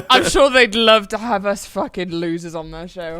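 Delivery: dry, self-mocking sarcasm; sarcastic. Real, not acted. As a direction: feign confidence to mean the opposite. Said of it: "I'm being sarcastic if you didn't notice".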